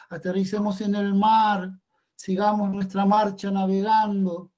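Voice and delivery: understated dreamlike yell; mild poetic call-out. Acted. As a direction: call it out across the dream, without a full shout. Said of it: "yo le gritaba".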